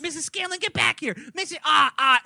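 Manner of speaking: high, desperate calls after her; mock frantic calling after a stormed-out mom. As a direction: call her back, voice cracking high. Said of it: "he's like".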